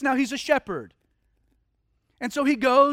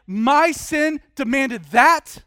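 anguished confession; 6 dB louder, much slower than usual. Acted. Abel weeping at the altar.

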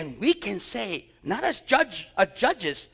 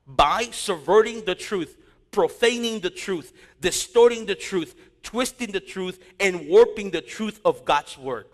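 preaching emphasis; 4 dB louder than usual. Real, not acted. Preacher hammering the congregation with emphasis. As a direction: pound each word home from the pulpit.

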